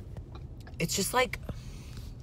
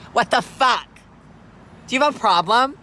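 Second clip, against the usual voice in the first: yelling, much higher and louder; furious confrontation; 7 semitones higher, 9 dB louder than usual. Acted. Driver yelling at the man filming her, furious challenge. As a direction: challenge him like you're ready to fight.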